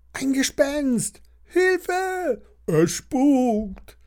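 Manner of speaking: put-on very high, drawn-out panicked child shriek; kreischende Kinder. A narrator's reading. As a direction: shriek in alarm like frightened schoolkids. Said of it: "kreischen die Kinder". (hohes, panisches Kinderkreischen)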